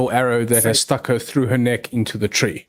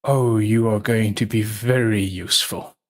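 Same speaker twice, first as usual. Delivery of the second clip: scheming Silas; 2 semitones lower than usual. Acted. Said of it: "And he's like".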